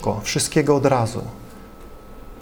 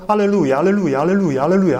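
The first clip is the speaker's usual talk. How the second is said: rapid looping repetition, run together; powtarzanie w kółko; much faster than usual. Shown as a demonstration. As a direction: repeat it round and round like a drill. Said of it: "sugerują powtarzanie w kółko". (powtarzane w kółko, jednym ciągiem)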